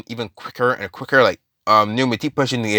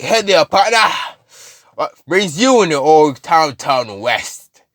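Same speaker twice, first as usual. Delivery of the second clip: higher, louder mock cowboy voice; Carnage; 4 semitones higher, 3 dB louder, slower than usual. Carnage greeting them in boots, cowboy drawl. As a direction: hail them like a showy cowboy. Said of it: "a cowboy hat".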